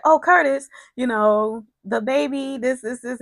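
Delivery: put-on high, bubbly gush over the baby news; all excited. Portia gushing to Curtis about the baby, excited. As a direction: gush like you can't wait to show him. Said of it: "and she's all excited".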